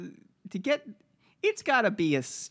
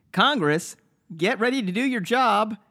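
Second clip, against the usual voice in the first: loud tweet read; 5 semitones higher, 6 dB louder than usual. Retold or imitated. Reading Trump tweet aloud.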